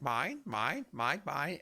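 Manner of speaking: repeated squawky calls with swooping pitch; Finding Nemo birds. Retold or imitated. Game master recalls the Finding Nemo birds, imitated bird calls. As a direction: imitate a flock of birds, each word rising. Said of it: "with the birds being like".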